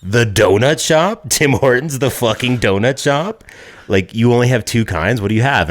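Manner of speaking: retold disbelief. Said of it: "And then just immediately I'm like".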